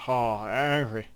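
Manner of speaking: put-on slow, slurred drunk greeting. Shown as a demonstration. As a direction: drag it out like you've had a lot. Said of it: "if I wanna say, like, I had a lot".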